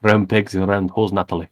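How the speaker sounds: put-on accent that comes out Russian; Billy Davis. Co-host asked for the impression, Billy Davis impersonation. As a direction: attempt an impression, with the accent drifting towards Russian. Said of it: "do your Billy Davis impression".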